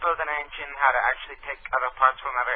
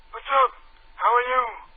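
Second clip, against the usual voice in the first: put-on squeaky old-man voice, very high and loud; 10 semitones higher, 6 dB louder than usual. Greeting a caller on a prank call: old Jewish guy voice. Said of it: "This sounds like an old Jewish guy".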